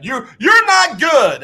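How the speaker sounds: high, slow taunting call from the stands; mock heckler yell. Fan heckling the coach from above, mock yell. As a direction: jeer it down slowly, hammed-up. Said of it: "fans were yelling down to Bill O'Brien".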